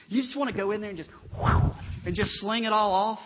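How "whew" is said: big breathy sweeping whoosh; whoosh noise. Shown as a demonstration. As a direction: blow out a sound like clearing a desk. Imitates sweeping a desk clear.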